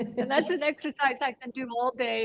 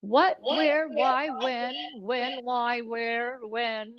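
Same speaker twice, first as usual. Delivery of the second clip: core-connected speaking; much slower than usual. Shown as a demonstration. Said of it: "then you speak from there".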